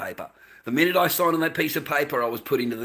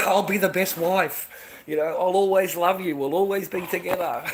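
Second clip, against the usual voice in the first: mock sweet wife; 5 semitones higher than usual. Mocking the bride's vows to the husband. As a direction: ham up her sweet vows. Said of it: "fairy tale promises mocked".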